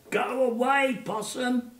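put-on high, loud chanting call of children; kids calling out. Children in the audience chanting at the puppet, high and loud. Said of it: "they were all calling out".

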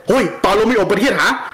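quick imitation of a friend's Filipino accent; lightly put-on Filipino accent, rapid delivery. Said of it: "and I copied him".

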